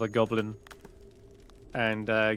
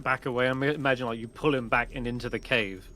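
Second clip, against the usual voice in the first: ordinary delivery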